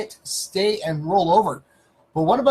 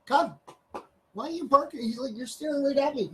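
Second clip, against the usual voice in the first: high, soft pet voice; talking to the dog; 9 semitones higher, 6 dB quieter than usual. Real, not acted. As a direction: gently ask the dog why, high.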